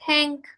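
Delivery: "Tank" with a high ng ending; ng final. Shown as a demonstration. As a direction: finish on a nasal ng. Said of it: "la N G es como una N G".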